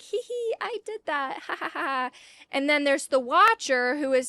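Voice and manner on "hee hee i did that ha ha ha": high, soft, giggly gloat; tittering triumph; smug Squirrel Girl. Retold or imitated. Squirrel Girl gloating over Thanos, high and giggly. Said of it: "Squirrel Girl like".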